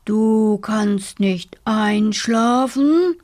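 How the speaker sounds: slow rumbling bear question; grumbling bear. Acted. Bear grumbles at the sleepless dormouse, slow. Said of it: "brummte der Bär".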